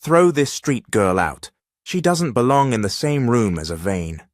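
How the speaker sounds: high, loud imperious order; commanding. Acted. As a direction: order them out sharply. Mother orders guards.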